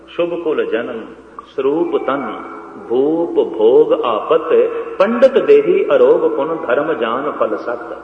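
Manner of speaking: slow, measured scripture recitation; verse recitation. Acted. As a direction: recite the verse slowly, phrase by phrase. (ਸਹਿਜੇ-ਸਹਿਜੇ ਸ਼ਲੋਕ ਦਾ ਉਚਾਰਨ)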